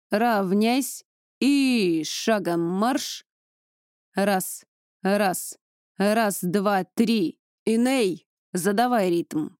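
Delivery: drill commands. Acted. Drill instructor commands squad.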